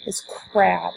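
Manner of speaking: slow, deliberate modelling of crab; slow syllable demo. Shown as a demonstration. Teacher modelling one syllable word, slow and deliberate. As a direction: model the word clearly for the kids. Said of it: "we're saying the syllables".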